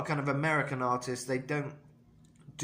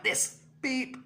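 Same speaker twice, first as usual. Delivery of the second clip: mock fan of a singer; 12 semitones higher than usual. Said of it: "you fans be like".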